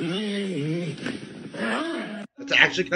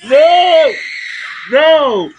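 loud horrified no; shouting no; 8 semitones higher, 8 dB louder than usual. Real, not acted. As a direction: yell it out in protest. Horrified reaction to game scene.

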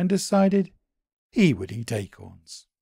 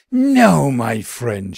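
rasped; 11 dB louder, slower than usual. A narrator's reading. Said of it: "she rasped".

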